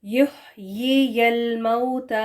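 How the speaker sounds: slow careful یحیی الموت; correct pronunciation, repeated. Shown as a demonstration. Teacher repeats the correct reading for students. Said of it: "correct pronunciation ہے".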